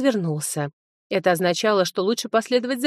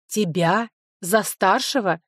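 За старшего slowed, stress on за, falling; slow, doubting echo of За старшего; incredulous question; slower than usual. Acted. Sofi mocks Linoy's claim of being in charge, incredulous.

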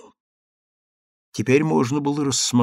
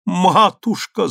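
higher, louder, slow anguished cry; exclaiming again; 7 semitones higher, 5 dB louder, slower than usual. Acted. Kneeling daughter cries out to her mother, anguished. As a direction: draw out Матушка as a wail. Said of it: "снова воскликнула девушка".

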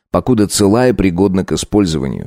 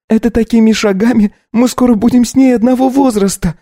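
put-on young wife's voice rising high and louder; raised voice; 4 dB louder than usual. Wife raises her voice at her husband. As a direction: voice breaks upward in protest. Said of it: "аж голос повысила".

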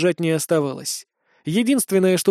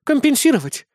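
much higher, offended disbelieving echo; 9 semitones higher than usual. A narrator's reading. Chris echoing the hero's promise, offended disbelief. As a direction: fling the word back, hurt. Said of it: "обиженно ответила Кристина".

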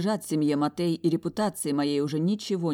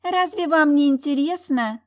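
high, loud flirtatious coo; coquettish; 11 semitones higher, 8 dB louder than usual. A narrator's reading. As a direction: bat lashes innocently. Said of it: "кокетливо похлопала ресничками". (кокетливо, высоким голосом)

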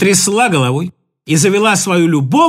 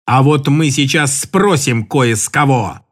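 slow, menacing threat; 7 semitones lower, slower than usual. Acted. Uncle Borya repeating his threat menacingly. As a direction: drag it out like a threat. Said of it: "грозно повторил дядя Боря".

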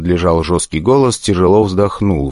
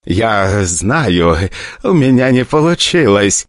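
mumbling; 3 semitones higher, slower than usual. Acted. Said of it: "мямлил в трубку ... с набитым ртом".

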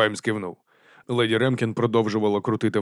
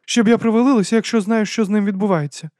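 high startled exclamation; cry out; 11 semitones higher, 6 dB louder than usual. A narrator's reading. Lady exclaims over the sick dragon, high cry. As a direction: blurt it out, shocked. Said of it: "скрикнула вона".

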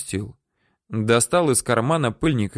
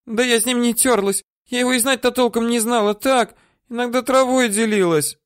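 put-on high, whiny old-woman voice; woman whining denials at her captor; whimpering; 14 semitones higher than usual. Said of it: "хнычет баба".

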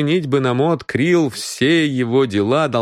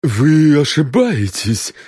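uneasy; 5 semitones higher, 4 dB louder, slower than usual. A narrator's reading. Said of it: "побледнев".

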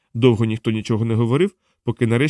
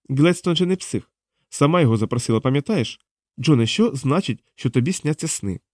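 lightly voiced, higher-pitched questioner; interrogating woman; 4 semitones higher than usual. Diana questions captive John about the council, probing. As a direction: press the captive for an answer.

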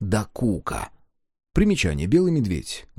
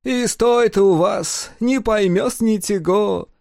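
higher, slow grumbling lisping Greek; complaining foreigner; 9 semitones higher, 4 dB louder, slower than usual. Acted. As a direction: lament it in a foreign lisp, slowly. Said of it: "посетовал он".

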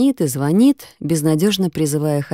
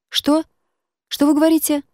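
much higher, yelled over a bad line; shouting into phone; 11 semitones higher than usual. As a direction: shout to be heard. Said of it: "Ты чего разоралась-то?".

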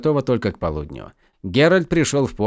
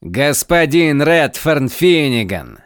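slow, sneering announcement of the name; unpleasant sneer; 3 semitones higher, 5 dB louder, slower than usual. Acted. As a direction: savour the name with contempt. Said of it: "Голос ещё был неприятнее взгляда".

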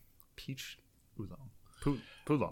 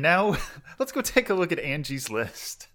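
light segment announcer; 4 semitones higher than usual. Pretend. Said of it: "that would be a segment name".

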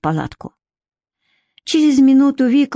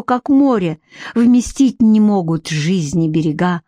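poetry declamation. A narrator's reading. Nikita urgently recites love poem to Vika, declaiming. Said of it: "его декламацию ещё кто-то слушает".

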